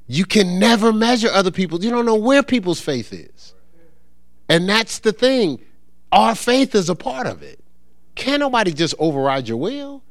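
high-pitched, emphatic preaching; impassioned preaching. Real, not acted. Preacher builds to forceful emphasis.

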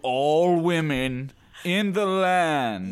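Genghis Khan voice. Pretend. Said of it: "it's like they're Genghis Khan".

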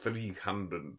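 slow, plummy theatrical actor; fruity actor voice. Pretend. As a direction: ham it up like a stage actor. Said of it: "I'll do my fruity actor voice for it".

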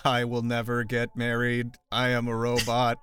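robot voice. Pretend. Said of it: "my A I co-host will be like".

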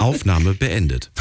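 slow, even machine voice; robot voice. Pretend. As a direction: announce it like a computer. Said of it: "Das war meine Roboterstimme".

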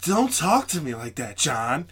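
lightly mimicked white girlfriend scolding. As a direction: imitate her telling you off, pitch lifted at first. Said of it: "she just sounds so white".

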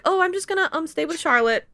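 coy, smitten sidestep; bashful Dan. Retold or imitated. A friend plays lovestruck Dan, bashfully choosing to stay with Charlotte.

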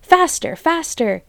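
very high, loud frenzied yelling; crazed farmer shouting at the drivers, very high and loud; frantic shout. A narrator's reading. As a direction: drive them on like a madman. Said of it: "hopping about like a dervish and shouting".

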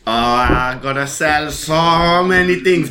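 lightly voiced auctioneer, words stretched out; mock auctioneer. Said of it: "fast talking being an auctioneer".

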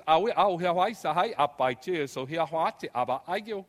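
loud, sing-song Piraha syllables; Piraha speech demo. Shown as a demonstration. Lecturer showing the audience how the Piraha talk. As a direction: sound out the Piraha words loudly, like the villagers. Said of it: "they talk something like this".

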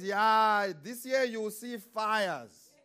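slow, loud prophetic warning; lightly voiced doomsayer neighbor.

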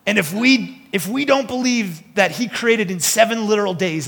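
put-on playful Texas accent, pushed up high. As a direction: insist like an emphatic Texan. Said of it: "I'm doing the accent now".

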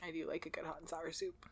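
softly savoring the words; whispering. Real, not acted. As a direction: whisper it with longing. Whispered craving.

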